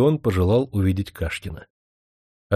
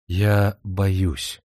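страх шёпотом. Acted. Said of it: "с нескрываемым страхом прошептала".

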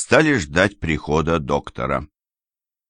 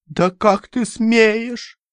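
very high, slow, outraged cry; a mother outraged at her son-in-law; ringing indignation; much slower than usual. Acted. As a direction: ring with indignation. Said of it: "звенящим от негодования голосом".

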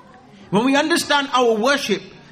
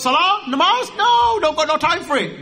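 high, brushing off prayer like a careless lad; dismissive youth; 8 semitones higher than usual. Retold or imitated. Young men dismissing prayer, mock careless attitude. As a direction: shrug it off, no time for it.

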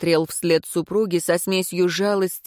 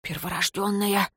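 blurted breathless; 7 dB quieter than usual. A narrator's reading. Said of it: "судорожно вздохнул и выпалил".

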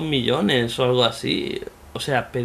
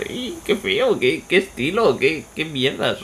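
mock disgust; 3 semitones higher, slower than usual. Mock reaction to ugly game.

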